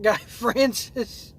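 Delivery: a slow line broken by a laugh. Real, not acted. Reading a comment that mocks him, laughing at it. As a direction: giggle through the name. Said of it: "I'm laughing so hard".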